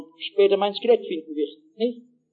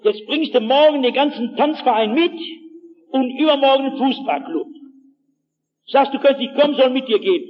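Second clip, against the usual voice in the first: mock cold fury; 3 semitones higher, 3 dB louder than usual. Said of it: "Da kriegt die die kalte Wut".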